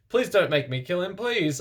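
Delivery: high, pleading plea; begging. A narrator's reading. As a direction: beg him desperately, voice up. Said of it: "I begged".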